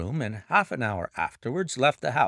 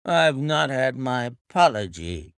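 sulky; 4 dB louder than usual. Acted. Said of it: "said he sulkily".

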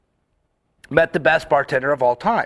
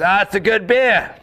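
lightly voiced Australian bloke, a bit higher; imitated Australian; 4 semitones higher than usual. Australian stranger praising a beer at the bar, light Australian accent. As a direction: put on a hint of an Australian accent. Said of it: "Australian fellow stands up to the bar".

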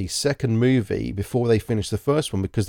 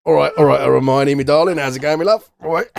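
put-on louder, cocky working-class London accent; cheeky London lad; 5 semitones higher, 7 dB louder than usual. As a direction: play the grown-up lad chatting up Hermione in a London accent. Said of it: "And then it's".

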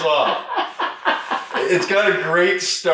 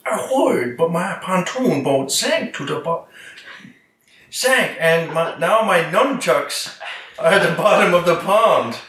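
mock Asian accent.

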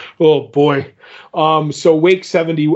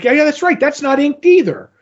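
imitating himself; 10 semitones higher than usual. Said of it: "I was like".

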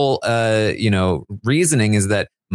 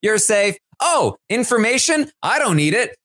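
much higher, careless and chirpy; breezy Taylor impression; 9 semitones higher than usual. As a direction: toss it off like nothing matters. Voicing Taylor dismissing info.

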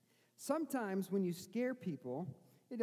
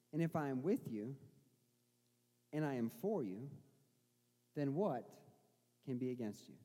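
tender reassurance; 3 semitones lower than usual. Acted. Pastor speaks softly as Jesus.

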